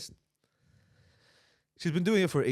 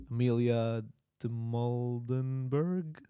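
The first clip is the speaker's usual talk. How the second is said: slow, unsure first try at the name Amelia de Moldenberg; much slower than usual. Shown as a demonstration. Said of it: "Just say it with confidence".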